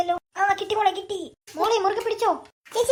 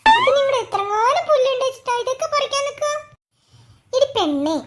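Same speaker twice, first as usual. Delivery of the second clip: laughing; 3 semitones higher, 4 dB louder than usual. Acted. Sister laughing while scolding.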